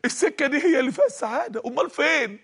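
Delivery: rising hammed-up cry of fين; shouting voice. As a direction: push it up like a voice nagging in his ears. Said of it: "صوت بيصرخ في وداني تاني".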